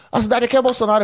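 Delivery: high, pushy heckler's call. Retold or imitated. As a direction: throw it back up at the stage. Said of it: "Aí o cara falou".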